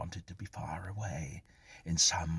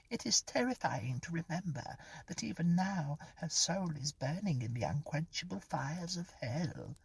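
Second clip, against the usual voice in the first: much higher, cold and precise mock sermon voice; Henry's cold precise voice; 11 semitones higher than usual. Pauline mocking Henry's preaching to Brian, cold precise imitation. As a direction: mimic a stern old bigot, each word clipped cold. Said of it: "imitated Henry's cold, precise voice".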